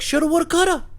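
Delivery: very high, loud mock wail; drunk dude. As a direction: imitate a drunk man crying out in defeat. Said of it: "I'm drunk".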